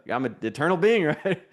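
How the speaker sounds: chuckling through the words; laughing at himself. Real, not acted. Preacher amused at himself before the congregation, laughing. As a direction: let real laughter break in as you say it. Laughs at losing track of time.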